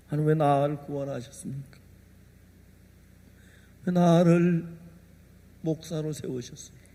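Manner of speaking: soft, low murmured question to God; hushed prayer. Retold or imitated. Preacher quietly asking God why he was saved. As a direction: ask God quietly, almost to yourself.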